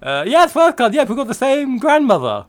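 tongue pressed back, throaty swallowed vowels; swallowed dark vowels. Pretend. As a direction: speak with the tongue pushed down the throat. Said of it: "I press my tongue back sort of down my throat".

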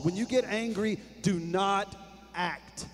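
when you get angry, do not, pause, then act dropped soft; drawn-out warning with a held pause before act; slow pausing emphasis. Shown as a demonstration. Preacher warns angry listeners, pausing before the last word. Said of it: "control yourself and pause".

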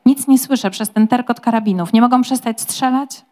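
urgent and frightened, near shouting; panicked shell shock. Acted. Shell-shocked lord panicking to his servant about the enemy mines.

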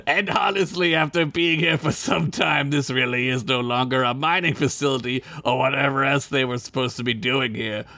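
lightly voiced Gorn, deliberate delivery. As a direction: read it as a pompous alien reptile. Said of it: "you do a Gorn voice this time".

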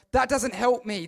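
preacher's emphatic repeat. Acted. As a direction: lean in and hit it harder. Repeated line, second louder.

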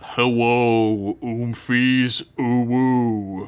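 put-on lightly lisped baby talk. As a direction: coo it like a toddler. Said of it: "can you read it in a baby voice?".

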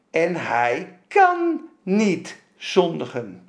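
very slow, weighty verse reading; deliberate scripture reading. Real, not acted. Preacher rereads the verse to the congregation, deliberate scripture reading. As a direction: read it out word by word, stretching each one.

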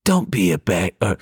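fake Sicilian accent. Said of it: "his fake Sicilian accent".

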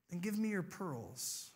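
soft, quiet request; lightly voiced dad, asking softly; gentle father. Dad asks his daughter for her treasure, gently.

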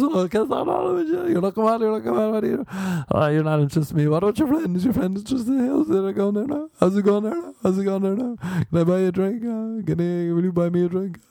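high, leery Irish pub chat-up; drunk Irish lad. Retold or imitated. Drunk dude chatting up women at the bar, leery Irish. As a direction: lean in like a drunk guy hitting on women.

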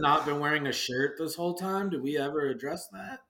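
words around a lollipop; sucking a lollipop. Real, not acted. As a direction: lollipop in the mouth. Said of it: "while I'm sucking on my lollipop".

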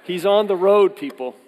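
mock alarm while laughing. Real, not acted. Dad warning the congregation, laughing. Laughing about son's permit.

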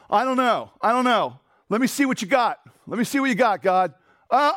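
hammed-up grudging reader weighing God's word; mock skeptic. Mocking a doubter's attitude to God.

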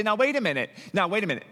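mock-indignant protest; indignant objection. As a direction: object as if you've been wronged. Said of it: "And you say".

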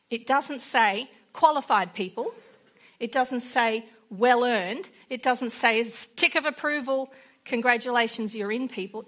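preacher insisting it isn't earned; emphatic denial. Real, not acted. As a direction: knock each wrong word down firmly. Emphatic contrast list.

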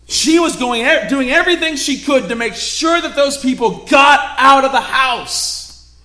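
loud, high, driving sermon voice; preaching at full force. Acted. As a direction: push the urgency on the listeners. Preacher urging urgency.

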